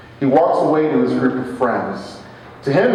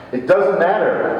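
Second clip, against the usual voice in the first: repeated higher and firmer; a little louder; 6 semitones higher than usual. Retold or imitated. Repeating it to the groper's friend, a little louder. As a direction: press the point harder. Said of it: "I repeat a little louder".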